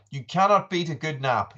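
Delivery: emphatic enthusiasm. Real, not acted. Streamer greeting Chippy about naps, keenly emphatic. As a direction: say it keenly to a friend.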